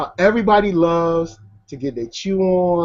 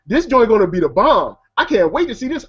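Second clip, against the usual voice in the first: higher-pitched, hyped-up moviegoer's reaction; retold excitement; 5 semitones higher, 3 dB louder than usual. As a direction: replay your eager pre-release buzz. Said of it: "I was really excited about the film".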